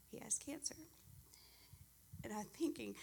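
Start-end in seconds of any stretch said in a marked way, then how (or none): 0.1-0.7 whispered, breathless news; hushed whisper. Retold or imitated. Mother-in-law breaking bad news on the phone, whispered.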